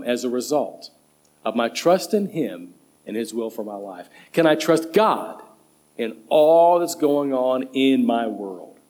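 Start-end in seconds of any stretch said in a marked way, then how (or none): 4.3-5.4 "God" lifted and punched at the end; stress on God. Shown as a demonstration. Preacher asking about God's trustworthiness, stress on "God". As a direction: put the weight on the final word "God". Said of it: "put the emphasis on God".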